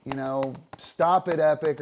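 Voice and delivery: high, loud pleading with the dog; excited urging. Shown as a demonstration. Owner urging the dog Epic to get the disc, high and loud. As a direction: cheer the dog on nonstop. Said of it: "and I'm saying".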